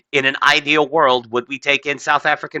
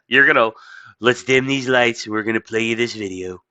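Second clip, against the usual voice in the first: Trump impression. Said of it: "Trump basically just says".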